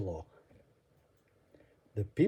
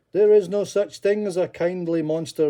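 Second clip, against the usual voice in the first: insistent crowd; 6 semitones higher, 7 dB louder than usual. Acted. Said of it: "they told him".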